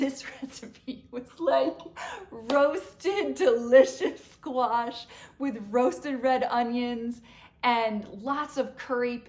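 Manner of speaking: real foodie excitement at full volume; gushing excitement. Real, not acted. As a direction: rave about it, savouring each word loudly. Gushing over a recipe she loved.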